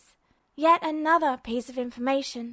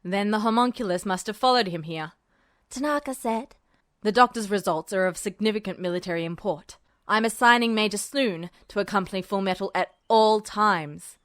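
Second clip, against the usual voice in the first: lower, gravelly-styled general; a hint of a menacing general; lower register; 4 semitones lower than usual. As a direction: drop into a low menacing register. Voices Tanaka.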